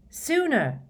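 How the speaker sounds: high, eager blurt. A narrator's reading. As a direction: jump in keenly. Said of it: "said Dean Thomas eagerly".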